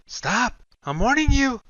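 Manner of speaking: high, loud warning yell. A narrator's reading. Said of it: "she yells out".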